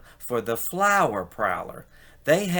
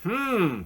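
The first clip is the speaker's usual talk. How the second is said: thoughtful hmm; 9 semitones higher than usual. Acted. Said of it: "deep in thought".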